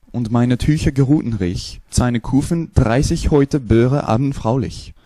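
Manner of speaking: German-sounding gibberish; fake German. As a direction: babble like German. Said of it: "the next one will be German".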